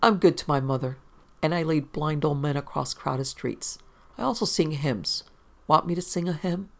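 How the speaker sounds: lightly voiced drunk newspaperman, self-righteous; a hint of boozy piety; tipsy reporter. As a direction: boast like a mildly sozzled wag.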